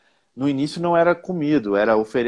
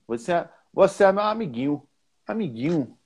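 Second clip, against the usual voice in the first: Bahian "amiguinho" with no nh, ending "-ĩu"; higher Bahian lilt, "amiguinho" as "amigĩu"; Bahian accent; 5 semitones higher than usual. Shown as a demonstration. Teacher contrasting Rio with Bahia, Bahian accent on "amiguinho". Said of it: "na Bahia fala assim".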